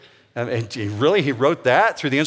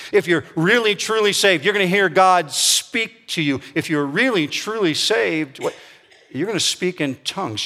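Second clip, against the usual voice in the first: higher, pushy mock-preacher tone; mocking false teacher; 5 semitones higher than usual. Pastor mocking teachers who demand tongues, hammed-up. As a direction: parody the pressure, pitch climbing on truly saved. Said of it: "They'll say things to you like this".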